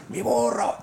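high friendly holler from a passing truck; high mock holler; cheerful call-out. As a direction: call his nickname out from a truck window. Truck drivers calling out in passing.

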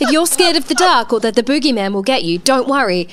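hammed-up airline announcer voice; flight attendant. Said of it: "sounded like a flight attendant".

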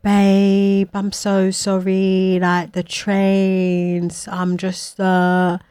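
slow, soft mock apology; reading a sorry text with stretched words; apologetic text. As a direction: drag out a lame excuse, quietly. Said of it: "I get a text".

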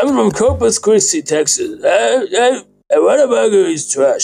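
high, put-on Texas accent. Shown as a demonstration. Guest demonstrating for laughing hosts, Texas accent. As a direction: try your best Texan twang. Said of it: "Could you show us the Texas accent?".

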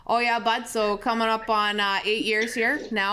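light Canadian accent, friendly and casual. Shown as a demonstration. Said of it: "I just start into my Canadian accent".

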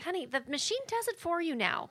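imitating mom. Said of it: "she was like".

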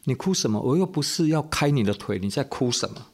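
lightly voiced annoyed doctor; a touch of impatience at the mother; retold scolding. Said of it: "然后对着妈妈说".

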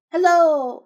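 loud, high drawn-out hail; big ringing hello; calling out. Acted. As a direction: call out loudly, stretching the word. Repeats the character's cried hello.

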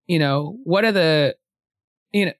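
halting, stuttering start. Real, not acted. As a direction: trip over the words. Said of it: "I'm sorry, I'm stuttering".

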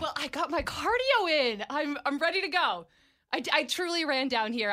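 panting after a run; breathless from running down the hall; out of breath. Real, not acted. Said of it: "I am still panting".

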